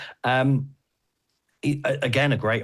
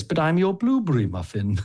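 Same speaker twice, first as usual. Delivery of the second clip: Beast voice; 8 semitones higher than usual. Retold or imitated. Beast quoted in comic.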